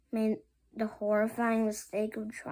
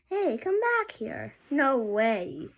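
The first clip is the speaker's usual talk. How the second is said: calling out; 3 semitones higher, 5 dB louder, slower than usual. Acted. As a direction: shout after him to come back. Kids chase the hero.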